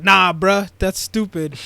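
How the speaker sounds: loud, punchy acted refusal; mock protest. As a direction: shoot the plan down loudly.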